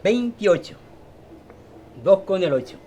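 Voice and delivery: loud, ringing number call; lottery caller. Shown as a demonstration. Calling lottery numbers aloud.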